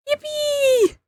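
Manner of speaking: very high gleeful squeal; squeaky yippee. Real, not acted.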